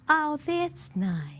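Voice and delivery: high, slow, stretched "oh"; drawn-out polite reaction. Retold or imitated. Stranger reacting to her backyard picture, drawn-out and high. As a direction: imitate a stranger's slow, high-pitched approval. Acts doubters' reply to photo.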